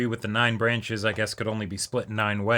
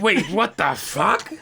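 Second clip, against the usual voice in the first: laughing disbelief; 6 semitones higher, slower than usual. Real, not acted.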